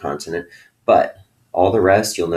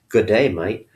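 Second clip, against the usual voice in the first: a hint of a silly Australian accent, half-hearted; lightly mock the Australian accent for laughs; bad Australian accent. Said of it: "bad impression in a silly voice".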